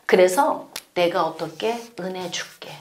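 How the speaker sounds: tender whispered promise; God whispering a promise of grace. Acted.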